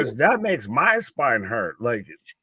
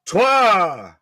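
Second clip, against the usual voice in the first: chanted count, a touch higher and louder; arena-style French count; 4 semitones higher, 4 dB louder, much slower than usual. Acted. Co-host counts along in French with the match, chanting. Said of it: "sounding like a Maple Leaf scoreboard".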